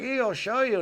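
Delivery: high, pitiful voice of the bandaged fella; whiny injured stranger. Retold or imitated. Bandaged fella telling Rod what happened, high whine. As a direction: moan it like a hurt, sorry bloke.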